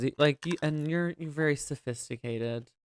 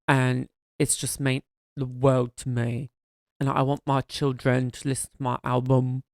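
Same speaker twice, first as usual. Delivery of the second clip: put-on British accent; 3 dB louder than usual. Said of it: "I can do like a singer when she's like".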